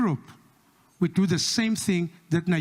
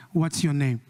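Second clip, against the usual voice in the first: put-on announcer asking the lost boy his name; lower voice asking; 6 semitones lower than usual. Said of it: "they ask him his name".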